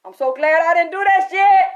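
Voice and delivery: loud, high exclaim; shouting relief. Real, not acted. Telling viewers loudly how glad she is, shouting. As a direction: yell it out, relieved.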